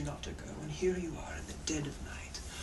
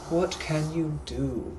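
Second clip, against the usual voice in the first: slow, louder British musing; drawn-out mocking British question; British gentleman musing; 6 dB louder, slower than usual. Captor mocking the captive's offer, slow louder British accent. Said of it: "I'm also a British gentleman from the eighteen hundreds".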